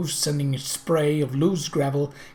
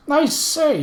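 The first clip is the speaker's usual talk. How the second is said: called out high and loud; calling out; 12 semitones higher, 5 dB louder than usual. A narrator's reading. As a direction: hail them across the yard. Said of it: "he called to one of the s".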